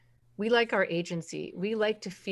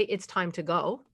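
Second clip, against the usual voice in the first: blunt order; 2 semitones lower, slower than usual. Shown as a demonstration. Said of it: "That's an order".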